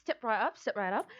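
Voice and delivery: carnival barker. Acted. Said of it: "keep a British accent".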